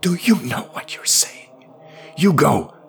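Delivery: high, agitated priest's voice; aghast questioning. Acted. Priest gripping her shoulders, aghast questioning.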